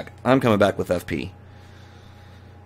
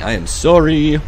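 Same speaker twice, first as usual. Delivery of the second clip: loud apology; 6 semitones higher, 6 dB louder than usual. Real, not acted. Apologizing to game character.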